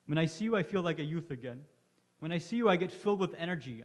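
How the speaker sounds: growing fervor. Acted. Old Habib growing fervent.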